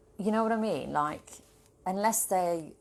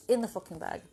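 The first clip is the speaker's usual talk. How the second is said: triumphant; 4 semitones higher than usual. Real, not acted. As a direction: crow over the win. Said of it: "building repetition".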